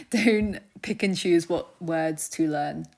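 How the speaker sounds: slow, firm and deliberate; slowed, insistent teacher warning; firm emphasis. Shown as a demonstration. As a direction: lay down the rule word by word. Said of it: "firm teacher insistence".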